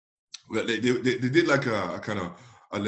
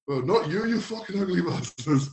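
ghetto comeback; 7 semitones higher than usual. Retold or imitated. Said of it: "my kinda ghetto side came back".

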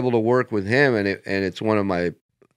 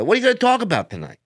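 Dice voice; 12 semitones higher, much faster than usual. Retold or imitated. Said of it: "He said".

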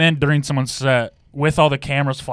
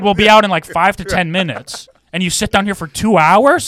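higher, louder mock-exasperated complaint; retold indignation; 6 semitones higher, 5 dB louder than usual. Band member retelling a complaint to the limo driver, indignant. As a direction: protest the injustice while retelling it.

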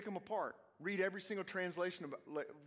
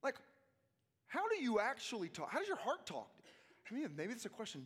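normal talking voice

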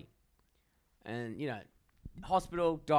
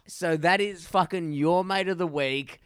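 hyped announcement; 3 semitones higher, 6 dB louder than usual. Real, not acted. Announcing the mate of the week.

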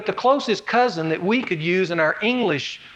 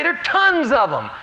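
high, louder insistence; emphatic of course; 7 semitones higher, 4 dB louder than usual. Pretend. Fan answering about Arkansas basketball, emphatic. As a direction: answer like it's obvious. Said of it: "well, you'd say".

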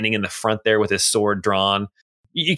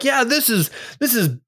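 higher, indignant townsfolk voice, drawn-out ending; an angry local fed up with the guards; riled-up crowd member; 10 semitones higher, slower than usual. Acted.

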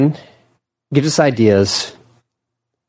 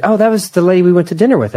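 put-on higher, childlike voice for the little girl; little daughter's voice; 8 semitones higher, faster than usual. Mom voicing her young daughter remembering dinner, higher childlike voice. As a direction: imitate a young daughter brightly recalling someone.

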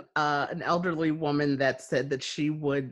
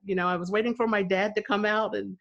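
flustered apology; 7 semitones higher than usual. Retold or imitated. Stranger apologizing in parking lot.

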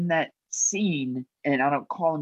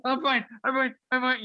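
imitating tearful co-star; 11 semitones higher than usual. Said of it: "she's like".

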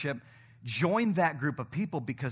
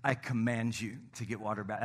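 solemn command; 5 semitones lower, 6 dB quieter than usual. Real, not acted. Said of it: "I'm gonna do it. Ready?".

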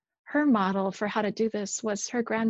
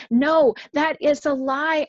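louder, higher defiant cry; screaming defiance; 4 semitones higher, 6 dB louder than usual. Retold or imitated. Preacher voicing rest's cry against the lie, mildly raised. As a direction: hurl back a firm refusal. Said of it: "It screams".

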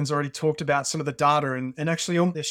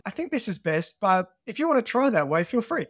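lightly voiced calm mentor, higher pitch; 5 semitones higher than usual. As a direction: calmly leave the choice to them, imitating a mentor. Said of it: "he very calmly said".

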